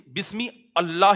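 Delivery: "بسم اللہ" as bismi, then Allah; "بسم اللہ" left unjoined; wrong unlinked reading. Shown as a demonstration. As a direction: separate "اللہ" from bismi with a full a. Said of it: "ہی تھوڑی ہے".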